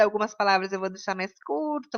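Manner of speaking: quick, clipped-short demo of "curta". Shown as a demonstration. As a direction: rattle the line off fast. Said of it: "eu vou falar mais rápido". (mais rápido)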